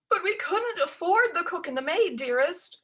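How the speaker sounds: high, loud wailing plea; wailing stepmother. A narrator's reading. Stepmother wails excuses to Ella, high and loud. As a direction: wail out the excuse. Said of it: "wailed stepmama".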